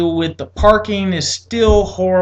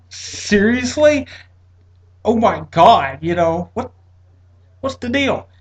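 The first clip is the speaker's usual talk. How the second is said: higher, slow shocked disbelief; stunned disbelief; 4 semitones higher, slower than usual. Retold or imitated. Hearing he needs surgery today, slow stunned disbelief. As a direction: drag out the shock.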